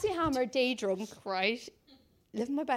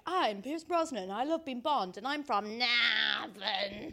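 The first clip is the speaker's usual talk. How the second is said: imitating Pierce Brosnan's Irish accent, slowing at the end; lightly done Irish Pierce Brosnan; a hint of Irish brogue, drawn out on Navan; Irish accent impression; 3 semitones lower, 4 dB quieter, slower than usual. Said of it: "so he's like".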